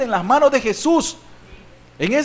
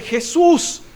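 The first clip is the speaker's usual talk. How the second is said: high, urgent cry to Jesus; crying out for rescue; 5 semitones higher, much slower than usual. Acted. Peter calling to Jesus as he starts to sink, crying out. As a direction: call out for help, pitch raised. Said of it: "dio voces diciendo".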